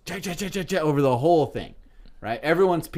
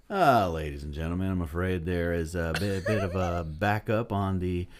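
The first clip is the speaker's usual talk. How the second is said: lower, calm captain announcement over the intercom; pilot voice; 4 semitones lower, 3 dB quieter than usual. Acted. Pilot tells passengers about the tarmac delay, lower announcement voice. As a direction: play an airline pilot stalling the passengers, voice pitched lower. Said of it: "That was a good pilot voice".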